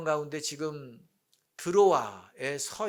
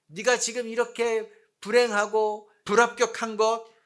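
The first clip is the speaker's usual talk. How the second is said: sneering. Acted. Enemies taunting a sufferer about God, mock sneering. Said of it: "비아냥거립니다".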